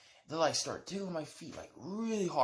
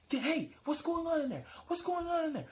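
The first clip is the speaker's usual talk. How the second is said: much higher, shouted call through a door; bang-on-the-door yell of a guard; 14 semitones higher than usual. Retold or imitated. Security guard shouts through the closet door, high yell.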